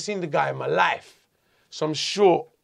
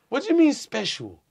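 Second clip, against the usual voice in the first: higher-pitched retold protest; indignant questioning; 4 semitones higher than usual. Prisoner challenging the warder over special treatment, indignant. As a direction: demand an explanation, voice pitched up.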